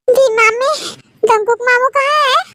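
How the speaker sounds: put-on a small kid asking sweetly; child voice. Teha asks for uncle. (छोटी बच्ची की आवाज़)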